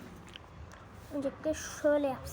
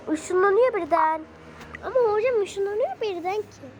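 incredulous; 5 semitones higher, 4 dB louder than usual. Real, not acted. Baffled by teleporting bee.

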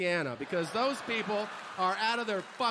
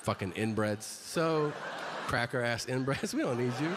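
low mock redneck growl; 9 semitones lower than usual. Mocking crowd, dropping voice low.

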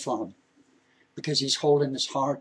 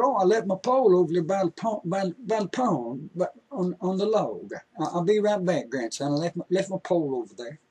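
put-on higher, hurried old man remembering his pole; absent-minded grandpa; 3 semitones higher than usual. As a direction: rush it out like a forgetful grandpa. Grandpa voiced in story.

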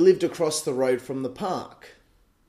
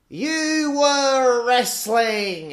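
mum scolding; 8 semitones higher, 3 dB louder, much slower than usual. Retold or imitated. Mum scolding in retold scene.

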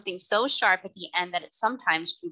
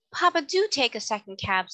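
put-on a girl pleading, leaning on "do"; beseeching; 4 semitones higher than usual. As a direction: beg her father gently. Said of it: "in a beseeching tone".

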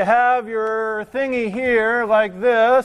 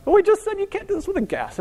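exasperated; 14 semitones higher than usual. Real, not acted. Teacher exasperated at textbook.

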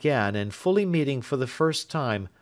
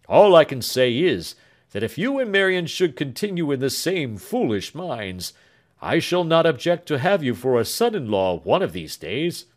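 put-on louder, chuckling old father; lightly voiced jovial doctor; 2 semitones higher, 5 dB louder than usual. Doctor teases Alfred about marrying his daughter, jovial. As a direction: tease the young pair good-naturedly.

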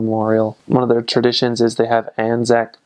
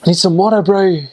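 higher and louder Kiwi bro talk; Kiwi accent; 7 semitones higher, 4 dB louder than usual. Shown as a demonstration. Showing viewers a Kiwi asking for water, Kiwi accent. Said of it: "It's like".

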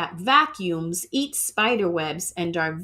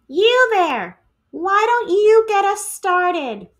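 higher, louder teacher calling out; brisk teacher; 10 semitones higher, 6 dB louder than usual. Acted. Teacher calls on the empty skin to lead the pledge, bright and loud. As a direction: call on the class like a bright teacher.

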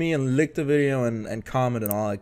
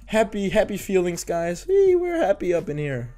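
forced fake calm; 5 semitones higher than usual. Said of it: "I'm calm, I'm recording".

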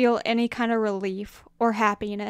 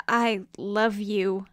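tender; much slower than usual. Acted. Remembered voice in memory.

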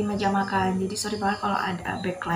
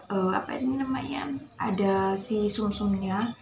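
whisper; 5 dB quieter than usual. Real, not acted. Whispering aside mid mukbang.

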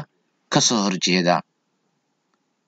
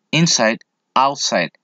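slow review; slower than usual. Shown as a demonstration. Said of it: "Rich, poor".

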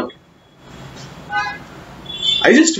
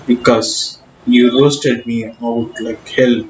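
British accent attempt. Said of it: "I tried the British accent".

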